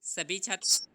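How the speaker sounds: loud call to the whole class. Real, not acted. Teacher calling out to all the students, loud. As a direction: raise your voice to reach every student.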